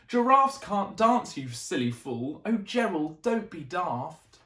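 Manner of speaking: mocking. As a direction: sneer at the clumsy one. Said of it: "the animals all laughed".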